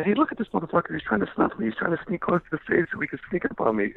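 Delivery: high mocking call-out. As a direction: call him out to the crowd. Calling out a man from stage.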